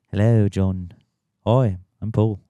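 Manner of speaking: put-on a light Liverpool accent, like a band member introducing himself; lightly voiced Liverpudlian greeting. Playing a famous band to explain Liverpool in a light Liverpool accent. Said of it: "like a famous band".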